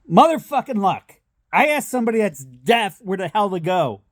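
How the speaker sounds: retold grumbling yell of a frustrated father; exasperated dad yelling. Dad asking a deaf man for directions, mock exasperated yell. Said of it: "And he's yelling at this guy".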